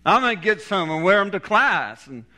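high, excited inner voice of an impressed student; awestruck admiration. Retold or imitated. Student thinking about his professor's dark glasses, awestruck. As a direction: retell being wowed, pitched well up.

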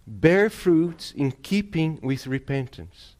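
slow, deliberate repeat with Bear stressed; solemn slow repeat, weight on Bear; slow emphatic repeat. Shown as a demonstration. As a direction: drive the verse home slowly.

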